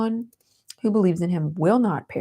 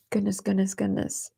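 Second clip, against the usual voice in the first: softer, weepy repetition; collect yourself through the tears; tearful murmur; 4 dB quieter than usual. Real, not acted. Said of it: "I did not mean to cry".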